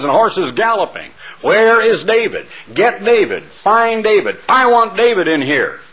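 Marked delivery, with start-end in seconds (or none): 1.4-5.8 commanding king. Acted. King Saul ordering his men.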